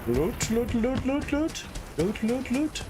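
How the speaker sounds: high, rising little calls; playful calling. Pretend. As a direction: call hopefully for it, pitch climbing on each repeat. Playfully calling out while searching for loot.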